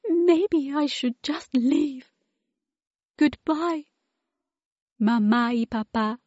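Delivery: a hint of tears while leaving; tearful goodbye. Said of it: "sobbed Wilma".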